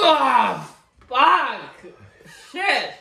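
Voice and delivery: high, loud, laughing cry; pained yelp. Real, not acted. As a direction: yelp it through the pain. Burning pain from hot pepper.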